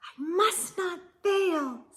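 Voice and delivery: a little tearful promise; determined tearful. Acted. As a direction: steel herself through tears. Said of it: "said the tiny snail".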